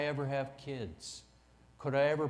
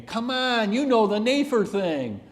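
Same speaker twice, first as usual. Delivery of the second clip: insistent; 9 semitones higher, 9 dB louder than usual. Retold or imitated. Wife insisting, high and loud.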